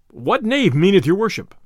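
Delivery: usual speaking voice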